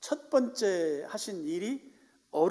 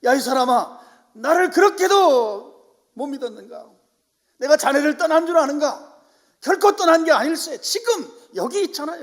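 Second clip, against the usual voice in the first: God pleading; 9 semitones higher, 13 dB louder than usual. Acted. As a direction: plead hard as God to a doubting friend. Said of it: "바로 어루만지시는 거죠".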